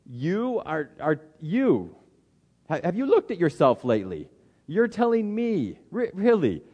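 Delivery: high, incredulous mock outrage, lightly acted; indignant disbelief. Pastor imitating his own inner reaction when confronted, a high mock indignation. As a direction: bristle back in disbelief. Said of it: "everything in me wells up and says".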